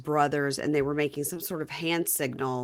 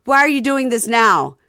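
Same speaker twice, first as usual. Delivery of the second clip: louder, higher question; puzzled husband; 6 semitones higher, 10 dB louder than usual. Retold or imitated. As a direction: ask like a baffled man. Husband asking wife.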